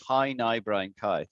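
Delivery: "How now, brown cow" with round ow vowels; model rhyme. Shown as a demonstration. Teacher demonstrating the how now brown cow rhyme. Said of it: "a little rhyme we say".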